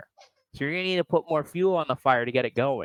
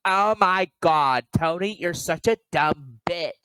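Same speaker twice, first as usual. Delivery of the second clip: put-on mean girl; 3 semitones higher than usual. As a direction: sneer at her like a fake friend. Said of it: "be a mean girl or something".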